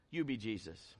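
low, soft and intimate; low hushed preacher's aside; hushed emphasis. Real, not acted. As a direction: drop right down to land it. Pastor drops voice for emphasis.

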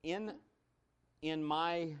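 ordinary talk, nothing marked

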